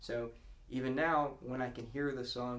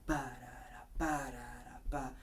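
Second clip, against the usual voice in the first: piano rhythm scat. Shown as a demonstration. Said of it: "they're gonna lock in on that".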